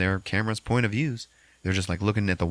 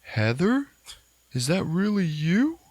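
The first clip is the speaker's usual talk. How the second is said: higher, hushed disbelief; stunned wonder; 10 semitones higher than usual. Retold or imitated. James seeing a familiar face, higher stunned wonder. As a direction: ask as if seeing a lost friend. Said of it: "hears James go".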